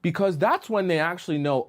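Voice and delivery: ordinary talk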